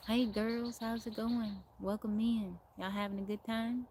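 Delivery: imitated country welcome; put-on country twang, greeting guests; very country accent. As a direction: mimic a country host's accent, lightly. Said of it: "they sound very country".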